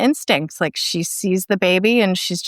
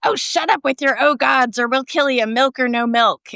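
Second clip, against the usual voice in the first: higher, mock snapping at her; snappy old witch; 5 semitones higher than usual. Retelling the film, narrator voices Laura Louise threatening Rosemary. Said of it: "Laura Louise is like".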